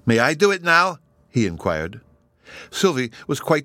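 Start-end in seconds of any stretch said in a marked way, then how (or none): 0.0-1.0 eager high-pitched plea; bouncing with eagerness; excited child asking. Acted. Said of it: "in some excitement".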